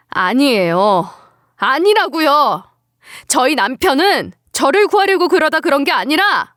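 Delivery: wounded, mounting insistence; insistent denial. Acted. Denies blame for husband's death.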